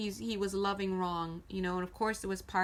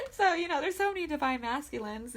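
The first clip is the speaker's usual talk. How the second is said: laughing while talking; 6 semitones higher, 4 dB louder than usual. Real, not acted.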